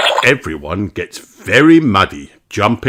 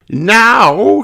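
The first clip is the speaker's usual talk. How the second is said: Madame Gazelle voice; 14 semitones higher, 7 dB louder than usual. A narrator's reading. Madame Gazelle speaks to class.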